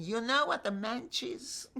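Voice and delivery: loud, high, furious challenge; angry demand. Retold or imitated. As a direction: hurl the question at him in anger. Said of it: "I was so angry".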